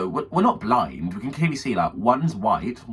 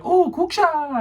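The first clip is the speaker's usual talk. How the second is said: high, loud sing-out; imitated calling out; 6 dB louder, much slower than usual. Stall worker after the bell rings, loud call. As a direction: holler it like an announcement.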